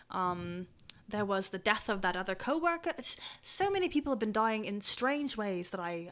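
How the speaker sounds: lightly voiced troubled townsperson; worried parent character. Townsperson lists strange deaths to adventurer, mildly troubled. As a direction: recount it with understated worry.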